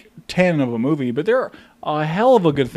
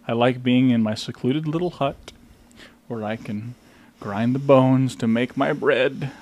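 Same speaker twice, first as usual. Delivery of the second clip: fairy-tale troll; 2 semitones lower than usual. Acted. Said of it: "That's the wrong troll".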